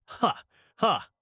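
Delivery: two separate, spaced-out "ha"s; stilted laugh at your own joke; deliberate fake "ha, ha"; mock laugh.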